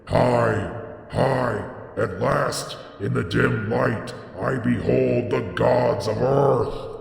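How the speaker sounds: shrieking in the shadows. A narrator's reading. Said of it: "he heard Barzai the Wise shrieking in the shadows".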